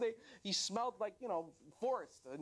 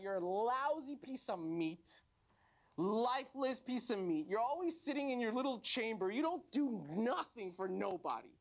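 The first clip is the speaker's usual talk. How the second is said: scornful rebuke; 3 semitones higher than usual. Acted. Body parts telling off the lazy tongue, scornful rebuke. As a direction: tell it off, stretching the insults.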